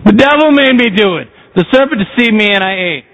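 lightly voiced woman passing the blame; blaming Eve. Eve answers God, lightly voiced and sulky. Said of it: "She said".

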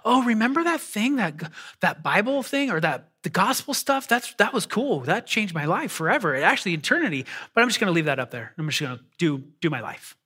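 a casual shrug at the gospel, fading out; indifferent believer. Retold or imitated. Pastor mocking a shelved-gospel Christian, light careless voice. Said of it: "not passive sitting on the shelf like".

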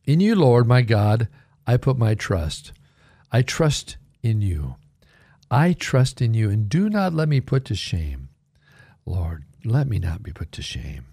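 slow, deliberate scripture reading; measured, reverent recitation. Shown as a demonstration. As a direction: read the Psalm slowly with pauses between phrases. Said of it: "I'll read it slowly".

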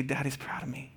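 put-on echoing child. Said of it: "she'll say".

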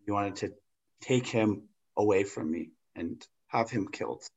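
mock-sincere hurt son, understated; heartfelt role-play. Player as Bush confronting Saddam about his father, understated heartfelt. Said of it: "speak from the heart".

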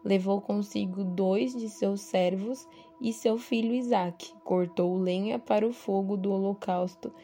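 measured Bible reading aloud; scripture reading. A narrator's reading. Devotional speaker reading Abraão's story to listeners, scripture reading. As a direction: read the passage out with deliberate phrasing.

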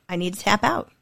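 calm request. Retold or imitated. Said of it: "I'm like".

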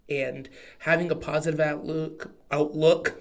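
outlook said with an Oklahoma twang; Oklahoma accent. Real, not acted. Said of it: "My Oklahoma accent really came out there".

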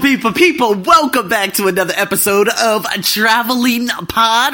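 loud, high, bursting with excitement; barely containing excitement; excited. Real, not acted. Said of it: "As you can hear, man, I'm a little bit excited".

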